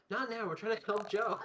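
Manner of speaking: mock dismissive. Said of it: "and then you guys just go".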